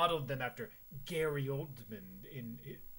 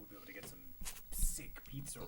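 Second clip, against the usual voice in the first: whisper; 2 semitones lower, much faster than usual. Real, not acted. Aside while partner talks.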